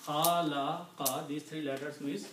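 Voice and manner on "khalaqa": "Khalaqa" drawn out slowly; slow Arabic word. Shown as a demonstration. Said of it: "This means to create".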